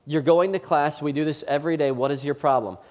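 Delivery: a dad losing patience; frustrated father. Retold or imitated. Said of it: "I'm looking back at him going".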